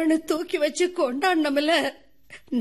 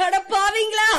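louder, higher anguished curse; louder outcry; 5 semitones higher, 4 dB louder than usual. Acted. Widow to her brother-in-law, crying out louder. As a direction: cry it out louder.

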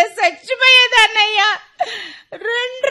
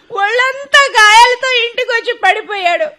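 weeping complaint; crying. Acted. Wife weeps to her husband that she can't go on. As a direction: sob out the complaint.

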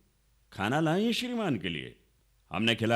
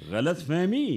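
incredulous echo; 5 semitones higher, slower than usual. Acted. Inspector echoes her excuse mockingly.

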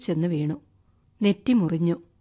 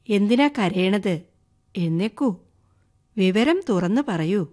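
gently consoling. Acted. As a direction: soothe someone who is crying. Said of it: "ആശ്വസിപ്പിക്കുന്ന മട്ടിൽ പറഞ്ഞു".

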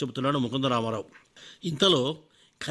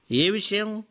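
irritated; 7 semitones higher, much slower than usual. Acted. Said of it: "అడిగాడు చికాగ్గా".

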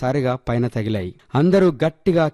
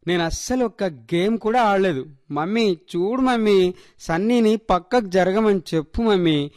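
put-on higher-pitched little girl pleading with mummy; coaxing child; 6 semitones higher than usual. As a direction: wheedle mum in a child's high voice. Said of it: "వాళ్ళ అమ్మను గోముగా అడిగింది". (గోముగా అడిగే చిన్నపిల్ల గొంతు)

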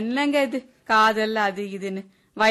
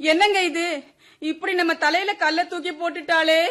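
distressed wail; 4 semitones higher than usual. Acted. Mother reads daughter's goodbye letter.

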